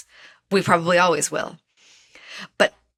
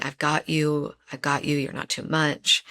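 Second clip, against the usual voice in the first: soft, lower, soothing self-talk; tender inner voice; 3 semitones lower, 5 dB quieter than usual. Retold or imitated. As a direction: comfort yourself gently, like holding a child. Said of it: "I hear this voice in my head".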